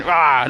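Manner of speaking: imitated parrot's "rah"; rough parrot impression; parrot squawk. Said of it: "my parrot on my shoulder going".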